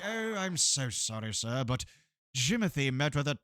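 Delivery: lightly voiced apologetic butler. Butler reporting the manservant's death, lightly put-on formal voice. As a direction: break bad news with a hint of a formal butler. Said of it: "a butler who was, like, talking like this".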